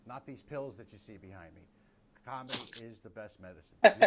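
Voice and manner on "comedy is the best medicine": loud slogan. Acted. Host's punchline slogan to audience.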